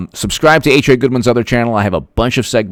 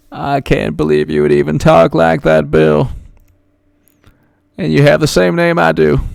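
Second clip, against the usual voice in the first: mock indignation; 6 semitones higher than usual. Mock scolding of a viewer.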